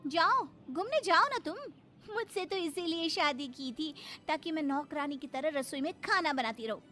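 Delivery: swooping, reproachful complaint; aggrieved wife. Acted. Wife to husband going off with friends, resentful. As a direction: scold him bitterly as the wronged wife.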